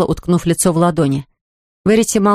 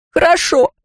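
shrill, much higher shriek; 10 semitones higher than usual. Acted. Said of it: "взвизгнула она".

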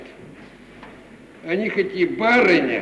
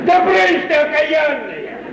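high, loud, slow "брысь"; shooing shout; 11 semitones higher, 5 dB louder, slower than usual. Acted. Servant chasing the snooping housemaid out, loud slow shout. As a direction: chase her off like a cat.

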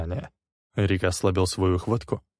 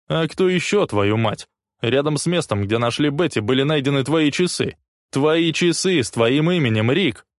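loud, much higher, heated accusation; snapping back; 7 semitones higher, 5 dB louder than usual. A narrator's reading. Leslie snapping back at Rick, loud heated accusation. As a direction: fire the accusation back at him. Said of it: "огрызнулся в ответ Лесли".

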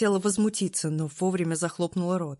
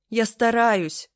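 strained cracking bark; shaking with effort; 5 semitones higher, 7 dB louder, much slower than usual. Acted. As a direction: snap it out, voice breaking from effort. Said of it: "рявкнула я срывающимся голосом".

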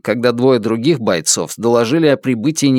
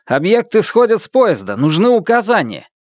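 officer's voice over the radio; higher, tense report to command; 8 semitones higher than usual. Acted.

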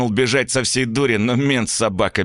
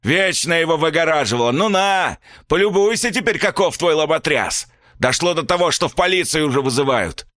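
furious father; 8 semitones higher than usual. A narrator's reading. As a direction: rage at the boy, then turn on the mother. Father blaming mother.

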